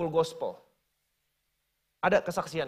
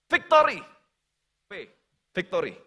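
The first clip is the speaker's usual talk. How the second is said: victory cheer; 4 dB louder than usual. Pretend. Fan cheering a goal, loud. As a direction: cheer like your team just scored.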